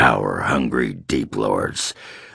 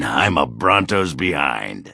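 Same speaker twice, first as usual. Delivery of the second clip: boisterous shout; 3 semitones higher than usual. Acted. Dwarf boasting crudely about Helmy.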